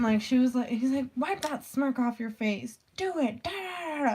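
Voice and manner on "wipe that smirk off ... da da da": higher-pitched mock scolding, climbing as it goes; half-serious retold rant, rising into a babble; imitated furious teacher. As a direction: imitate a teacher telling a student off. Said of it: "furious at her".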